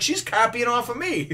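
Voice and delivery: high-pitched comic complaint; mock bickering. Sergeant in goofy lovers' quarrel, mock bickering. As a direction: whine back in a squabble. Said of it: "they're bitching at each other".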